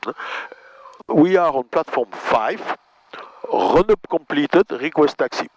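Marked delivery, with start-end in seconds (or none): 1.1-5.5 measured, slow pilot radio call; slow radio call demo. Shown as a demonstration. Instructor slowly demonstrating a radio call to the student. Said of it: "c'est juste attirer son attention et puis lui dire qui on est".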